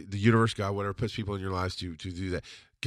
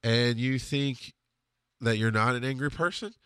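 flat-out question. Retold or imitated. Best friend calmly confronts his angry buddy, flat-out. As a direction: put it to him plainly, unhurried. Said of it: "he just flat out goes".

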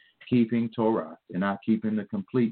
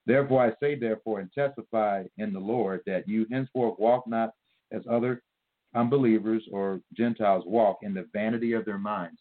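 measured verse reading with small breaks between phrases; slow reading. Shown as a demonstration. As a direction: read scripture slowly so it's understood. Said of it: "I'm gonna read this slowly so you understand".

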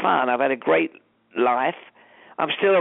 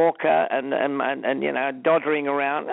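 put-on old man voice. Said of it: "that was my old man voice".

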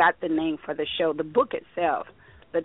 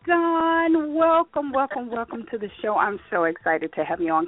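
out of breath; 6 semitones higher than usual. Real, not acted. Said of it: "Can you tell I'm out of breath?".

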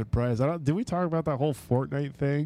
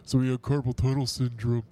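mocking media quote. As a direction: drag it out like a dumb rumor. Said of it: "like, the big joke".

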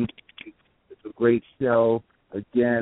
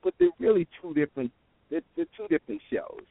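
cutting out; 3 semitones higher than usual. Real, not acted. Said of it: "You went out though".

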